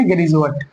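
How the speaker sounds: गेरी जुआट with J in place of D; correct pronunciation. Shown as a demonstration. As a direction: model गेरी जुआट with a J sound. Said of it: "क्या बोलेंगे?". (गेरी जुआट, 'ड' की जगह 'ज')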